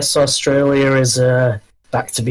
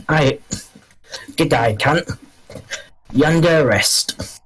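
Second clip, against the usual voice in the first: mock Steve Irwin; 3 semitones higher, slower than usual. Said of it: "just imagine, like, Steve Irwin".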